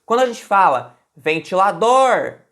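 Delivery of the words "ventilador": "ventilador" called out, loud on final "dor"; stressed last syllable. Shown as a demonstration. Teacher showing the strongest syllable, "ventilador" with stressed "dor". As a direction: punch and stretch the "dor" of "ventilador". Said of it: "qual que é a sílaba mais forte?".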